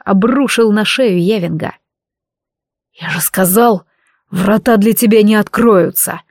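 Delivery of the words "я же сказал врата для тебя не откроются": growling snarl. Acted. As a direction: snarl it at the fallen foe. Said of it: "рыкнул Видар".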